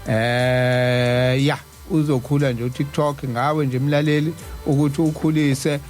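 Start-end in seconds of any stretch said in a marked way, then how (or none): none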